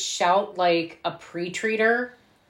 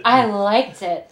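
slow, drawn-out mock flirting; breathy seduction; 3 dB louder, slower than usual. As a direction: coo it like a cut-price Marilyn Monroe. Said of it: "It is very breathy and ooh".

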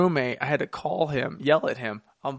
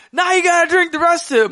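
mock taunting order; 8 dB louder than usual. Retold teammate's order.

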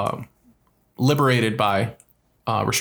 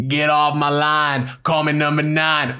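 put-on odd old man voice; slower than usual. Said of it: "he was going".

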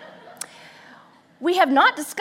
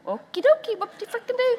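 high mock-cheery sarcasm; dripping sarcasm; sarcastic; 13 semitones higher than usual. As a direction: fake enthusiasm. Sarcastic response to idea.

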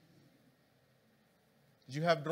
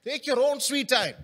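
higher repeat; 7 semitones higher, 4 dB louder than usual. Shown as a demonstration. Preacher repeating the phrase to the listening church. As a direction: lift it and stretch it. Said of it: "Let's be silent".

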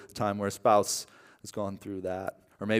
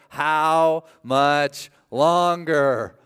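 slow drawn-out whining, high; whiny kid; 5 semitones higher, 4 dB louder, much slower than usual. Retold or imitated. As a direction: drag it out like a bored child.

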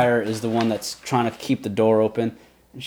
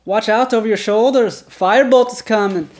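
character warning; 9 semitones higher, 5 dB louder than usual. Acted. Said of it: "she goes".

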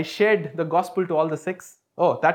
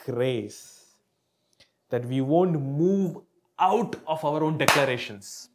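prayer. Acted. Leads prayer.

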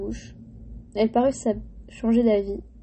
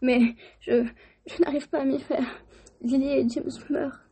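tearful giant; 4 semitones higher than usual. Acted. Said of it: "sanglota Hagrid".

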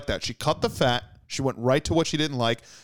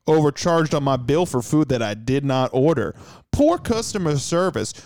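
put-on Southern accent. Reading an angry review aloud in a light Southern accent. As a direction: read it like an upset Southern customer. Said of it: "we're gonna go with Southern".

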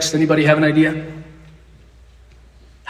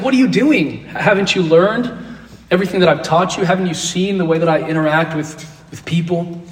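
indignant Jesus; 2 semitones higher than usual. Retold or imitated. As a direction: scold them lightly, exasperated. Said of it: "He's like".

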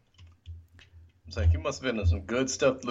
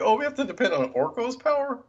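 scoffing sarcasm; 12 semitones higher, 4 dB louder, faster than usual. Retold or imitated. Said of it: "Cringer threw some shade".

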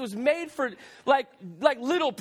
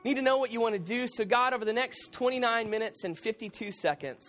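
prayer. Acted.

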